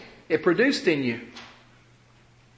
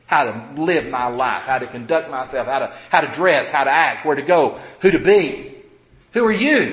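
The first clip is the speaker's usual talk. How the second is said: indignant; 3 semitones lower than usual. Acted. Offended member rebuffing someone who corrects them, indignant. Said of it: "That's indignant".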